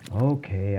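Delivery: understated grudging agreement. Acted. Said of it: "I say grudgingly".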